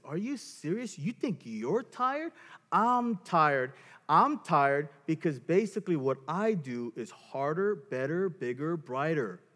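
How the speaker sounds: lightly acted scornful one-upmanship; mock disbelief, then boast over your partner; contempt. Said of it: "It's contempt".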